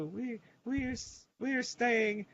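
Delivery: put-on high, slow Hispanic granny accent; mock Hispanic accent. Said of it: "This is my accent".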